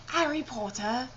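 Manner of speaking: playful attempt at British English; mock-British schoolboy wizard accent; Harry Potter British accent. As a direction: try out a British accent on the name. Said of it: "I am channeling Harry Potter".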